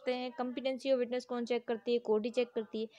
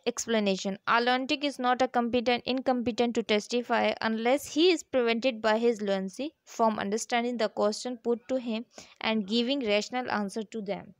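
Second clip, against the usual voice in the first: slow, deliberate, louder reading of the law text; statute reading; 4 dB louder, much slower than usual. Acted. Teacher reading the law to students, slow formal reading. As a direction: read each clause out slowly, like dictating. Teacher reads explanation clause.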